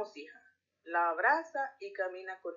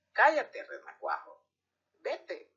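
desperate yell; 3 semitones higher, slower than usual. Acted. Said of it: "grita desesperada".

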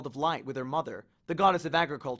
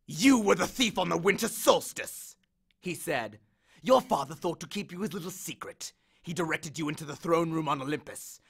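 accusing god. Acted. Hades accuses Percy of theft, swelling demand. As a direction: lay out the charge, then demand.

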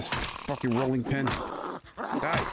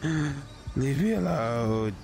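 mock pleading; slower than usual. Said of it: "let me survive one day, please".

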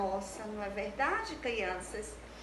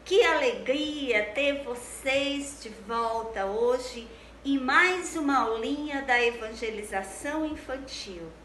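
put-on bright sing-song children's teacher; cheerful kids' show greeting; bright squeaky sing-song welcome; 5 dB louder than usual.

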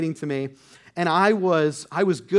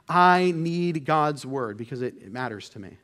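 I need God's word said slowly, each word leaned on; slow, emphatic; 3 semitones lower than usual. Shown as a demonstration. Preacher demonstrating emphasis to the congregation, slow and weighty. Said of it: "I'm gonna put an emphasis on it".

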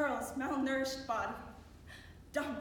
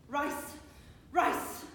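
insistent repetition; 4 dB louder than usual. Acted. Monotonous food repeated insistently.

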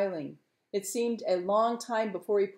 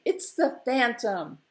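higher, slow, eager exclamation; imagined cry; 5 semitones higher, 5 dB louder, slower than usual. Acted. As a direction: say it as the longed-for announcement. Maureen imagines the longed-for cry.

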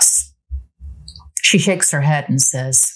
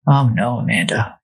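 soft and tender; 3 semitones lower, 5 dB louder than usual. Acted. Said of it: "he tells her softly".

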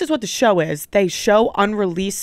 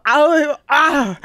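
imitated tongue-tied yelp, higher; garbled awkward noise; 4 semitones higher, 3 dB louder than usual. Storyteller imitating own failed hello, garbled yelp. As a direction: blurt a wordless botched greeting. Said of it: "And I just go".

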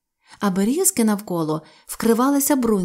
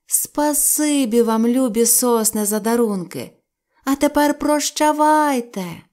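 cheerful thanks; 3 semitones higher than usual. Acted. Children thank the pines.

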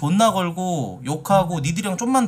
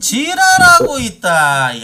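scornful retort; 7 semitones higher, 7 dB louder, much slower than usual. Real, not acted. Rejects the other's account.

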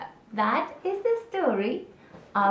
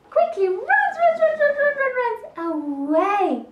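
high, urgent repeated words; hurried excitement; 13 semitones higher, 4 dB louder than usual. A narrator's reading. Narrator telling of Gecko fleeing the snake, urgent and high. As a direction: rattle it off like scampering feet.

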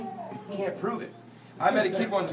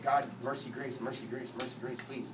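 low, hushed repeated plea; pleading prayer; 8 semitones lower, 11 dB quieter than usual. Retold or imitated. Driver praying after the crash, hushed pleading. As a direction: murmur it under your breath to God. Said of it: "But I'm praying".

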